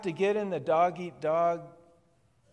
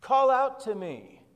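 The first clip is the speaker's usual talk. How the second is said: God calling out; 3 dB louder than usual. Pretend. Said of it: "And so God says".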